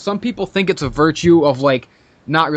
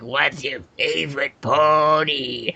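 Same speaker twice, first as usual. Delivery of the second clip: lower, slow dopey fan voice; mock nerdy fan; 5 semitones lower, slower than usual. Quoting the pesky caller, slow lower mock fan voice. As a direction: drawl it like a clueless fanboy. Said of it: "he's just like".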